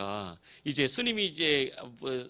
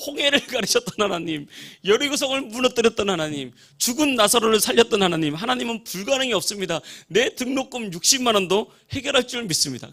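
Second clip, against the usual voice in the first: raised, insistent praying voice; same loud prayer; 6 semitones higher, 5 dB louder than usual. Retold or imitated. Young man repeating his dawn prayer for tuition, loud and fervent. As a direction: proclaim each line to God, high and forceful. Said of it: "똑같이 기도하는 거예요".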